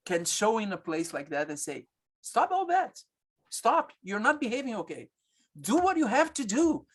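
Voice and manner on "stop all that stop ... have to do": higher, firm fatherly commands; doctor playing a father who scolds the laboring woman, firm; stern father figure. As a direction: lay down the law like a strict dad. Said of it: "the father figure".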